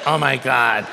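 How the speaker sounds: low, retold dismayed gasp of words; stunned realization. Preacher voices the man learning he met his pastor, stunned. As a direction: let it sink in, low and stunned.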